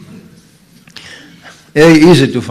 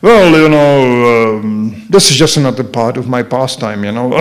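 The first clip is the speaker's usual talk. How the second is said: groom's casual shrug; 3 semitones lower than usual. Retold or imitated. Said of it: "and he is like".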